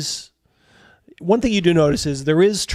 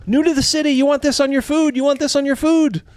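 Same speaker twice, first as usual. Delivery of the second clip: much higher, pushy vendor calls; market tout; 12 semitones higher, 4 dB louder than usual. Acted. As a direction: hawk spices in a high, loud voice. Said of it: "they're telling you".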